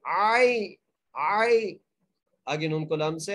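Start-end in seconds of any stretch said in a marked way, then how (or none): 0.0-1.8 आई said short and raised, not stretched; short leen ain. Shown as a demonstration. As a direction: clip the vowel of आई. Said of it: "बगैर खींचे पढ़ना है".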